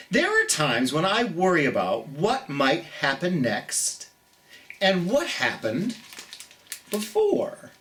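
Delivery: gentle storybook reading for little ones; reading to children. Acted. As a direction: read it like bedtime story time. Reads the picture book aloud.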